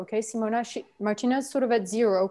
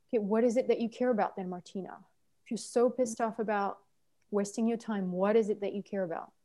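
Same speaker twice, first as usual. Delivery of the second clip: soft, toned-down coaching question; lower tone; 5 dB quieter than usual. Shown as a demonstration. Trainer showing what to ask Martina next, lower tone. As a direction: ask it softly, without the anger. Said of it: "with a lower tone of voice".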